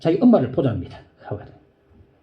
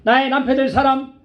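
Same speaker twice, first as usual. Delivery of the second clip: raised, pleading petition; earnest prayer; 9 semitones higher, 3 dB louder than usual. Retold or imitated. The sister pleads with God for a husband, raised and earnest. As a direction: ask God with all your heart. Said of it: "두 가지를 기도했어요".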